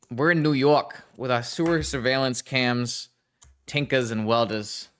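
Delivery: put-on playful New York accent, dropped r's. Streamer listing sewer cams and Tinkas, New York accent. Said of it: "in a New York accent".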